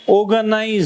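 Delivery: teacher's unfinished অর্গানাইজ with a lengthened ending; word held before stress. Shown as a demonstration. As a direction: build up অর্গানাইজ and hang on the z. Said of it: "এইভাবে এসে".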